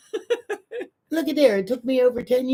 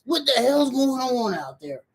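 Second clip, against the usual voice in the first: mom voice; 5 semitones higher than usual. Retold or imitated. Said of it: "with my mom voice".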